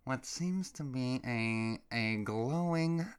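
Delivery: slow, lightly voiced deadpan official; a hint of a solemn expert, dragging it out; mock calm official. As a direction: parody a slow government briefing. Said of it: "calmly swamping".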